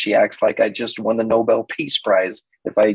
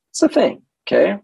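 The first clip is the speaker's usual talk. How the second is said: mock emphatic; 9 semitones higher than usual. Self-mocking aside.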